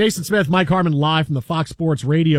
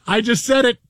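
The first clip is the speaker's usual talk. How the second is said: laughing retold; 6 semitones higher than usual. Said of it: "just laughing, going".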